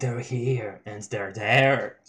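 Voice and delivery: burping. Real, not acted. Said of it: "Sorry, I'm burping".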